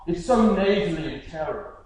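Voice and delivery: lightly imitated noble British accent; stuck-up British accent. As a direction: dismiss it in a snooty mock-British accent. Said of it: "like, that British noble accent".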